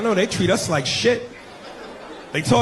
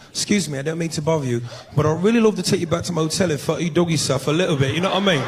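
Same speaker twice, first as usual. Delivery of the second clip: lightly put-on English accent; polite mock-English pick-up line. Shown as a demonstration. Smooth talker propositioning a woman in a club, English accent. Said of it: "English accent, that just roll off the tongue different".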